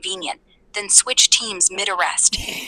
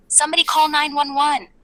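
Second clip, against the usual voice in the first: mock cry for help; 6 semitones higher than usual. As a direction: mildly imitate someone calling for help. Mocking her screamed plea.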